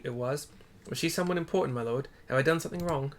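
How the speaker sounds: a hint of a flustered ferry captain; lightly voiced questioning scene. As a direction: lord questions, nervous captain. Streamer voices lord and captain.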